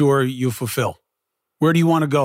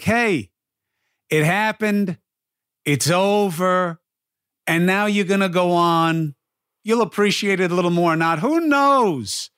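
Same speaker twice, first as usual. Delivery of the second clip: higher, punchy imitation of the lady; retold speed walker; 4 semitones higher than usual. Speed walker telling a moper it's over, imitated, pitched up. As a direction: do her blunt pep talk, pitched up in separate beats. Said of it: "She's like".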